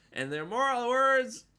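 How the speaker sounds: high, loud put-on voice of a comedian; George Miller impression. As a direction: pitch way up and push it out like a comic bit. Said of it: "that's my George Miller impression".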